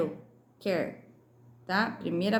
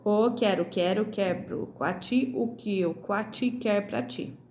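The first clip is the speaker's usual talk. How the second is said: tongue twister read aloud. Shown as a demonstration. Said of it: "Então, de novo". (trava-língua lido devagar, em voz alta)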